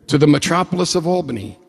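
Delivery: mock-grand, fast and laughing; amused mock grandeur. Real, not acted. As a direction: chuckle through the joke. Joking about small city.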